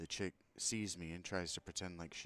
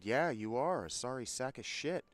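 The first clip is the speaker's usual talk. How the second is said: loud, high angry comeback; angry retort; 8 semitones higher, 9 dB louder than usual. Retold or imitated. Customer answering the sarcastic apology, angry retort. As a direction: hurl the insult back, much louder. Insult back in retold quarrel.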